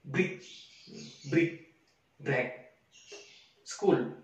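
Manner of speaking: words said with a thick Indonesian accent; Indonesian-accented English. Shown as a demonstration. Teacher imitating medok English for students. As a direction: read them as a medok Indonesian would. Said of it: "bisa dikatakan bahasa Inggris medok itu".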